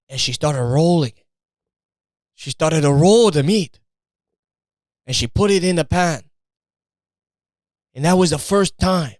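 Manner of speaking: a light put-on Italian accent, proud storyteller; lightly voiced Italian proud of his mamma. Italian guy bragging mamma invented meatball, light Italian accent. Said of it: "that's the thing with my accents".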